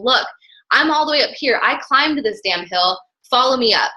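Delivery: a touch pushy and defiant, pitched a little up; mock-triumphant call from the hilltop; aggressive. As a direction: show them you climbed it, daring them to follow. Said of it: "like, aggressive with this".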